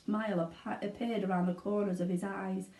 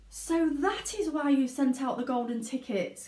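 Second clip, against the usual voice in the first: excited; 6 semitones higher than usual. Acted. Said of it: "cried Charlie".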